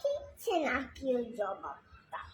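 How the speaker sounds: lilting, measured recital of a verse; poem recitation. Acted. Reciter performing Sukumar Ray's poem for listeners, lilting recitation. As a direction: recite line by line, pausing between phrases, questions sung out.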